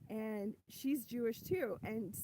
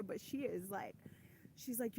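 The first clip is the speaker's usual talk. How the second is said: hushed whisper; 6 dB quieter than usual. Real, not acted. Hushed lead-in to secret.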